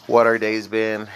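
slightly winded, catching breath. Real, not acted. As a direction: talk while short of breath. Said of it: "I'm a little out of breath right now".

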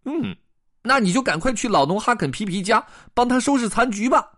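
high-pitched bossy fish voice; high, pert pet-fish instruction; goldfish character. Acted. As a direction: order it up high as a little fish. Goldfish tells Blum to clean up.

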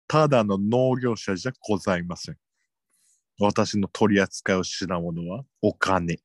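a creepy salesman purring his pitch; sinister salesman. Acted. Parody sinister salesman intro. (不気味なセールスマンの声)

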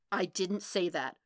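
firm denial at normal volume; contained denial. Acted. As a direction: deny it without raising the voice. Matt's first denial, held in.

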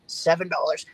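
pushy high hard-sell pitch; hammed-up sleazy salesman pressure; used car salesman. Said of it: "you sound like a used car salesman".

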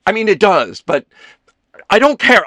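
loud, halting, climbing in pitch; flustered backpedalling. A narrator's reading. Ethan digging himself out of a blunder, increasingly frantic. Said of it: "tried to dig himself out of this blunder".

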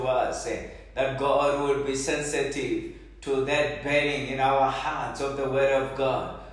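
earnest, pleading prayer voice; fervent prayer. Acted. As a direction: pray aloud over the congregation. Leads congregation in prayer.

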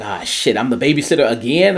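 mildly exasperated grumble; light mock frustration; frustrated Steve. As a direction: imitate a fed-up babysitter lightly. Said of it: "how much Steve is frustrated".

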